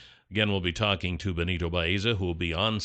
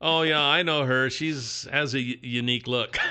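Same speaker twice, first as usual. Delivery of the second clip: high schooler; 3 semitones higher than usual. Acted. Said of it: "when you're in high school, you know, and you say".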